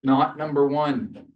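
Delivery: slow and weighty, each word "not number one" leaned on; slow down and punch "not number one"; stress on not number one. Shown as a demonstration. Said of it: "Notice here".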